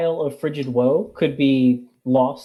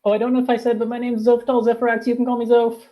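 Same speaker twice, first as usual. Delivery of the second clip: character intro voice; 8 semitones higher, faster than usual. Acted.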